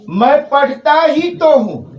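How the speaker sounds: ही तो leaned on, pressed hard; stress on ही तो. Shown as a demonstration. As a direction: press "ही तो" in मैं पढ़ता ही तो हूँ. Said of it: "जो डाला जा रहा है". ("ही तो" पर ज़ोर)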